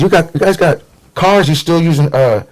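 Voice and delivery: high-pitched incredulous questioning with a laugh; mock-naive questioner. Classmates quizzing him on Oregon life, high mock-naive. Imitating Southerners asking about Oregon.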